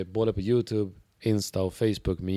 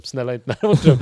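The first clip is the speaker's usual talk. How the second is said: louder, urgent begging; louder desperate plea; 3 semitones higher, 8 dB louder than usual. Retold or imitated. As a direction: plead harder, almost crying out. Begging escalates.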